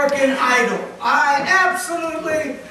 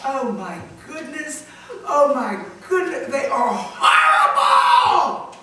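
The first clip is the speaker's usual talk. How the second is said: laughing disbelief; 3 dB louder than usual. Retold or imitated. Preacher mocks awful auditions, laughing then crying out. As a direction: laugh in horror at the singers. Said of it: "I said".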